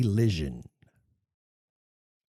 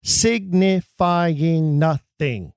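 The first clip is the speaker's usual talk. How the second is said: slowly spoken; much slower than usual. Shown as a demonstration. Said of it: "The previous line".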